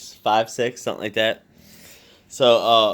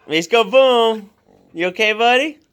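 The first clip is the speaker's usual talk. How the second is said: much higher, slow cooing; 12 semitones higher, 4 dB louder than usual. Real, not acted. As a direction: coo at the fallen dog. Dog tumbles, owner coos.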